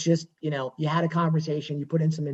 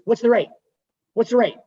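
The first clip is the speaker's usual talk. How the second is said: pushy client; 5 semitones higher, 5 dB louder than usual. Retold or imitated. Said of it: "she goes".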